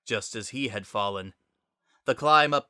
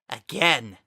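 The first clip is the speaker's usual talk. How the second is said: determined cry; 4 dB louder than usual. A narrator's reading. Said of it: "summoned his determination and said".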